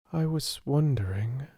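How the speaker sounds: hushed, sad whisper. Acted. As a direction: breathe it out, barely voiced. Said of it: "she said in a low voice".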